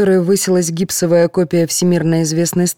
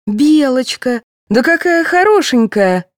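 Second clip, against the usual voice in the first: higher, gushing delight; higher, mock-delighted nurse; feigned delight; 8 semitones higher, 3 dB louder than usual. A narrator's reading. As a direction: pretend to spot something lovely.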